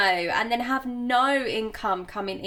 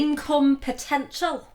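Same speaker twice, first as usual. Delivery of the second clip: mock Yorkshire accent; 2 semitones higher than usual. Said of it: "This is gonna be a terrible accent".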